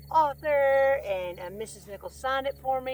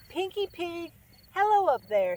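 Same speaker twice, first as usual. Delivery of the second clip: higher call up the steps; 7 semitones higher, 4 dB louder than usual. A narrator's reading. Frog calls up the cellar steps to the pig, friendly call. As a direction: shout a friendly hello upward. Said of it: "called Little Bug Eyes".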